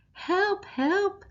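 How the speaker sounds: high, loud panicked scream; high-pitched loud cry for help. Acted. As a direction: shriek it out like a terrified mum. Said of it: "screamed Mum".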